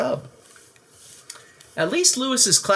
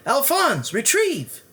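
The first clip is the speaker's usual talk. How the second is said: command; 12 semitones higher, slower than usual. Acted. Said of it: "Lewis would say".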